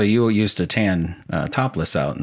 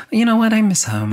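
higher, louder hammed-up wistful neighbor; mock German neighbor; 4 dB louder than usual. Husband voicing the German neighbor, hammed-up and wistful. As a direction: ham up the leering neighbor missing home.

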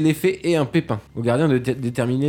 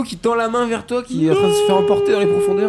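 dramatic narration. A narrator's reading. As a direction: pitch rising, building tension. (narration dramatique qui monte en tension)

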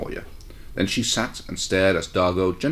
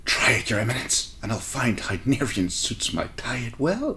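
hissed threat; 3 semitones higher than usual. Acted. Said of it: "she hissed".

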